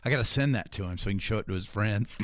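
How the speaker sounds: ordinary talk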